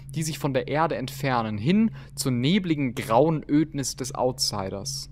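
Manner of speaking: solemn recital of a litany; formal reading. Acted. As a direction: read it like a sacred text. Reads in-game book aloud.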